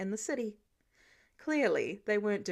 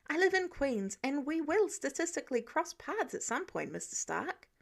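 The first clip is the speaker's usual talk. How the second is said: higher-pitched, lightly voiced Peter arguing his case; defensive Peter; 4 semitones higher than usual. Peter arguing with Mister Stark over footage, defensive.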